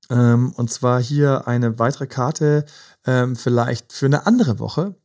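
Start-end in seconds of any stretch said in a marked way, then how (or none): none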